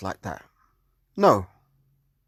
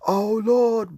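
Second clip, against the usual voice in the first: high, loud mocking shriek of a churchwoman; mock woman screaming; 11 semitones higher, 6 dB louder than usual. Preacher mocking a woman crying out in church, high hammed-up shriek. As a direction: shriek it like an overwrought woman in the pews. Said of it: "you know, woman screaming".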